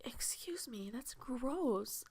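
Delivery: hushed, embarrassed whisper; whispered aside. Real, not acted. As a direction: whisper an apology under your breath. Embarrassed aside after a bodily noise.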